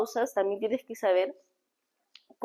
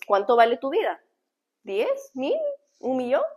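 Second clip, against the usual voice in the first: sarcastic, rising questions, higher at each step; 4 semitones higher than usual. Shown as a demonstration. Coach showing the gripping way to open a talk, sarcastic. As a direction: toss out the amounts mockingly. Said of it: "yo he utilizado la sensación de ser sarcástica".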